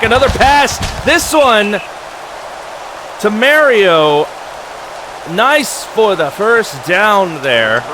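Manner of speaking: lively live play-by-play. Acted. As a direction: call the plays as they happen.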